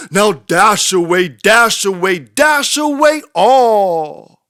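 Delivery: rally the team like a driver cracking the whip; shouting to reindeer. A narrator's reading. Saint Nick calls his reindeer by name, a building loud shout. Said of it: "he whistled and shouted and called them by name".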